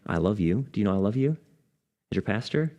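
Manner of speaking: gentle, quiet sincerity; sincere. Retold or imitated. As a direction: tell a dying man you love him. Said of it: "I looked him in the eye sincerely".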